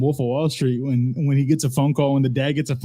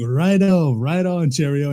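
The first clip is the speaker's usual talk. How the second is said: put-on cheery English accent, pitched up; mock English accent; 3 semitones higher than usual. Movie dad signing off a phone call, mock English accent. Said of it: "he has this English accent".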